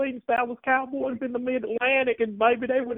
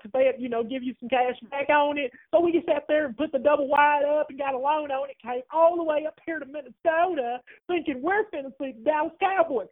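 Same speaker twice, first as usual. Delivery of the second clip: angry Southern woman. Acted. Caller plays Luann, angry fan.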